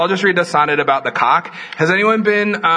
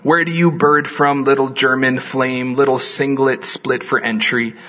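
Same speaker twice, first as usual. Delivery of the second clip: poetry reading. Acted. Reads poem aloud.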